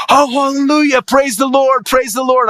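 high, exultant hallelujah; joyful praise. Retold or imitated. Pastor on the phone to Jeff, high exultant praise. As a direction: burst into praise like the relieved pastor. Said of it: "This pastor just started praising the Lord".

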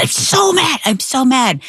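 put-on high, whiny kid's voice saying he's mad; mother retelling her son's outburst, imitating his high angry voice; imitating a mad little boy. Mom voices angry son.

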